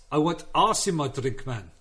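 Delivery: ice stretched to "ahs", Afrikaans style; Afrikaans accent. Shown as a demonstration. Comic showing his mates the trick of Afrikaans, in Afrikaans accent. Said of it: "the trick with Afrikaans accents is".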